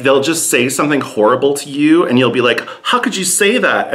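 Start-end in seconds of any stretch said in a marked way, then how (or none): 2.8-3.9 mock hurt. Her hurt reply to Dutchman.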